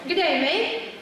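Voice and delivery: breezy Aussie "Good day, mate"; Australian accent. Acted. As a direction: greet like a friendly Aussie. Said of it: "hailing from the land down under is Ava".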